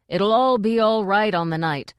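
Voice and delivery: loud, strained reassurance; frantic reassurance. Acted. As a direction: shout the reassurance. Hwel reassuring loudly.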